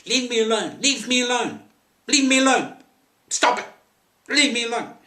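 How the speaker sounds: high, piercing repeated scream for help; terrified screaming. Retold or imitated. Retold woman screaming at her attacker, terrified shriek. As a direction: scream it as if someone is grabbing you. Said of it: "well, sh-, screaming".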